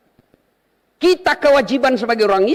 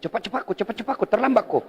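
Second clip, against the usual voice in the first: softer, hushed urging from the devil; devil's whisper; 2 semitones lower, 6 dB quieter, faster than usual. Retold or imitated. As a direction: murmur it like a tempter at your ear. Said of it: "tapi setan membisik".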